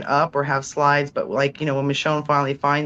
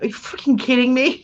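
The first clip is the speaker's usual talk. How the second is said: incredulous; 8 semitones higher than usual. Retold or imitated. Retells own outraged reaction.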